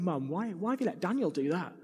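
put-on high, whining child complaining to Mum; a five-year-old wailing that it's not fair; whiny five-year-old. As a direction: whine like a jealous little kid. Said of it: "read this older brother narrative with my voice going".

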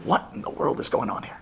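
whispered thought. Retold or imitated. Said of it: "And I'm thinking".

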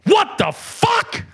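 high-pitched, drawn-out cry of disbelief; slow, stunned high yelp; shocked outburst. Retold or imitated. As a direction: let the voice leap way up in shock. Acts out shock at email title.

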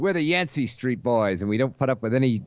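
mock Brooklyn street-gang accent; tough-kid talk in a New York accent; old-time New York gang kid. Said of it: "was in a gang".

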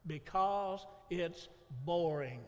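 slow, drawn-out bored reply; mock-bored excuse for skipping church; slow bored answer. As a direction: drag it out like you're bored. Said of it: "you know what they say?".

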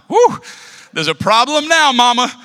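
high, loud mock-triumphant whoop; gloating shout. Child whose mom steps in to defend him, gloating shout. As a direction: crow it like a kid with backup.

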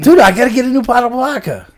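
high, quick, loud character voice; voiced Sue. Joking co-host mimics Sue needing vodka, put-on voice. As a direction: put on a pressed, high-pitched whine. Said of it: "I sound like Sue".

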